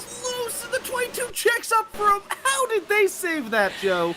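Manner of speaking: high excited race call; excited commentator. Acted. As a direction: call the near-crash with rising excitement.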